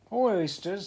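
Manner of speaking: loud high call. Acted. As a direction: call out across the beach. Carpenter calling to oysters.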